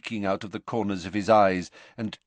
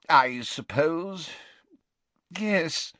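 hesitant, slow, higher agitated voice; 8 semitones higher, much slower than usual. Acted. Slughorn assenting to the staff's plan, rather agitated. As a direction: agree reluctantly, rather agitated. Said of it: "in a rather agitated voice".

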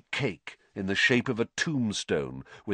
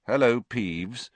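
slow, wary greeting; guarded, unhurried hello; cautious. Acted. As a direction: greet them carefully, drawn out. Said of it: "said Harry cautiously".

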